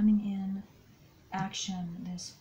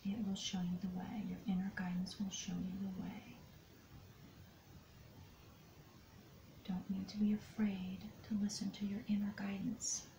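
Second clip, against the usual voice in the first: guidance whisper; 5 dB quieter than usual. Acted. Tarot reader whispering guidance to the listener, soft and hushed. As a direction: whisper it gently as inner guidance.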